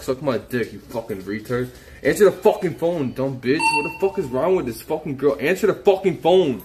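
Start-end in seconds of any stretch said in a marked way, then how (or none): 2.0-6.6 exasperated, pitch jumping on each demand; angry demand. Real, not acted. Streamer raging at an unanswered phone, angry demand. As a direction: demand it, fed up and insistent.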